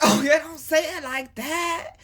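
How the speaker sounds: high, slow words through laughter; laughing. Real, not acted. Laughing while warning viewers about in-laws. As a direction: still giggling as you speak.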